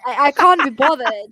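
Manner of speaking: English "can't" with a long ah; English accent "can't be bothered"; British can't. Shown as a demonstration. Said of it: "Y'all do can't".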